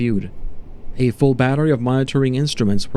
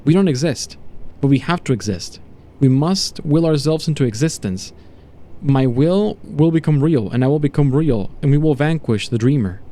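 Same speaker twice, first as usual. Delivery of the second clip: lightly voiced, mad resolve; fervent raving subject. Subject to doctor vowing to become real, fervent. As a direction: proclaim it with growing conviction.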